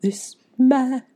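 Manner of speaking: mock Southern lady accent, belted high; hammed-up Southern diva line. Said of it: "that you're like".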